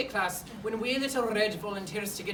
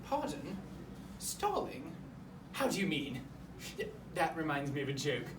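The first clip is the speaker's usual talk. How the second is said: lightly put-on headmaster, over-polite small talk; stiffly courteous school principal; awkward headmaster; 3 dB louder than usual. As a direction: play an awkward, formal headmaster making pleasantries. Performs headmaster in monologue.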